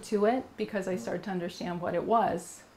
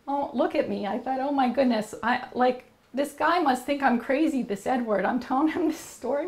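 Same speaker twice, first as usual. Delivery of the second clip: higher-pitched, mildly alarmed retold thought; flustered self-talk; 4 semitones higher than usual. Woman recalling her fear he thinks she's crazy, mildly flustered. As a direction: replay a moment of mild dismay at yourself.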